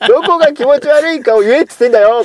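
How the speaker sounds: a hint of a coaxing purr; lightly sweet-talking, half laughing. Real, not acted. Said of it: "その猫なで声だもの".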